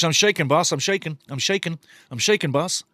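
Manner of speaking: lightly voiced convict answering his boss; hint of a worn-out chain-gang prisoner; mock prisoner. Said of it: "Cool Hand Luke?".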